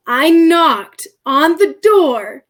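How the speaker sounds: laughing while telling the punchline; laughing disbelief. Real, not acted. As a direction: laugh at the absurd twist.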